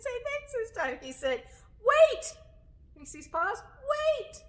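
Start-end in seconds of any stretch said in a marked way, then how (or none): 1.8-2.4 urgent shout. Acted. Bear interrupts dramatically. 3.6-4.4 startled wait. Acted. Bear repeats wait.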